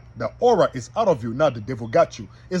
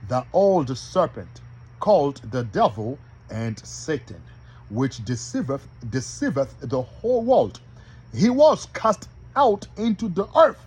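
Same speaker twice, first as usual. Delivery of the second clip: scripture reading. Real, not acted. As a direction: read the verse out deliberately, phrase by phrase. Reading scripture aloud to listeners.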